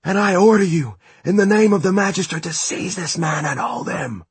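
high, loud commanding voice; commanding shout. A narrator's reading. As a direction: order it with full authority. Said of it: "she shouted up at the metal giant".

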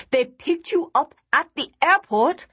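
disbelieving exclamation. Acted. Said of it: "exclaimed in disbelief, laughing hysterically".

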